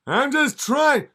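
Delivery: high, loud nervous comic voice; hammed-up high Seinfeld voice; squeaky Seinfeld. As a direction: yelp it like a startled Seinfeld. Seinfeld answers devil.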